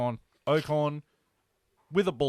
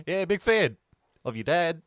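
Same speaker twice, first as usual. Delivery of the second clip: imitating Nick Aldis; 3 dB louder than usual. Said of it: "Nick Aldis goes up".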